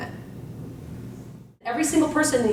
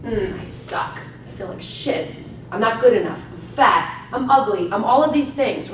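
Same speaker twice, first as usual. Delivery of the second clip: gloomy self-talk. Shown as a demonstration. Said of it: "when you say the opposite".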